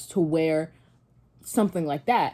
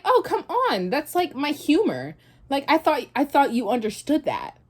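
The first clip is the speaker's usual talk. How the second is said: much higher mocking voice; mocking boyfriend; 7 semitones higher than usual. Imitating the boyfriend saying it was his humor, much higher. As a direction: mimic him brushing it off. Mimicking boyfriend's dismissive excuse.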